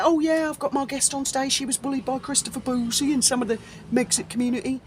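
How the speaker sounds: quick, oblivious mock host; mock idiot. Host proudly announcing today's guest, mildly mocking imitation. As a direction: lightly mimic a clueless presenter. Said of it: "like an idiot".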